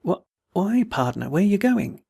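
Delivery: mildly unsteady stammer. Acted. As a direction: falter as if dazed by the goodbye. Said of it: "he asked unsteadily".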